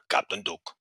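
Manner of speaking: a hint of an impersonated captain; George Duke. Detective answering the phone as his captain, lightly imitated. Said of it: "who imitates Duke to a T".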